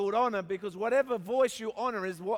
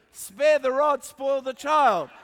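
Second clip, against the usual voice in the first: loud, higher, drawn-out proclamation; hammed-up menacing Bible quote; stern scripture shout; 6 semitones higher, 8 dB louder, slower than usual. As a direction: thunder it like a mother wielding the rod. Mother's stick scripture mimicked loudly.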